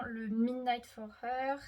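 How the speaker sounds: Midnight for Her said slowly in a thick French accent, "minaid for heu"; self-mocking French accent. Shown as a demonstration. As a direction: drawl the English brand name through a heavy French accent on purpose. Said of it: "mon magnifique accent".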